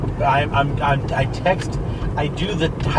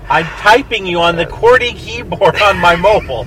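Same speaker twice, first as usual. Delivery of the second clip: put-on old lady voice; 3 semitones higher than usual. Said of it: "'Cause I'm an old lady".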